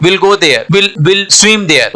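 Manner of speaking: "will" for we'll, one syllable; contracted form. Shown as a demonstration. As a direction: merge we and will into "will". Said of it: "इसको क्या बोलेंगे". ("will" यानी we'll, एक ही शब्द)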